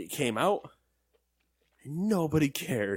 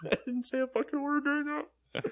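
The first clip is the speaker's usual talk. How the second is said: higher, words pushed out through laughter; giggling while insisting he said nothing; laughing protest; 11 semitones higher, 4 dB louder than usual. Real, not acted. Laughing at his own bit.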